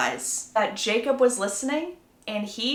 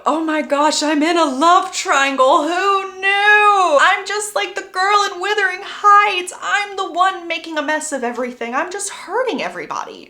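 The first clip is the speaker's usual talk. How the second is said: high, loud mock wail, easing toward the end; melodramatic inner monologue; 8 semitones higher, 6 dB louder than usual. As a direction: wail it high like a hammed-up heroine. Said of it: "an inner monologue of".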